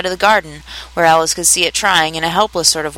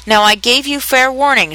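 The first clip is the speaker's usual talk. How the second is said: raised, imperious warning; shouted; 6 semitones higher than usual. A narrator's reading. The Queen stamping and warning the Duchess, shouted. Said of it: "shouted the Queen".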